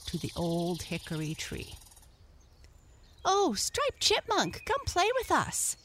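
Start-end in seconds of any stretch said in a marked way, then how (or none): 3.3-5.8 high, loud, calling out to a friend; playful shout. A narrator's reading. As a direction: call him to come play, high and loud. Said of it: "shouted the Merry Little Breezes".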